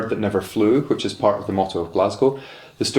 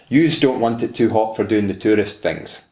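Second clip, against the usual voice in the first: put-on Glasgow accent. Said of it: "I'll do the Glasgow one".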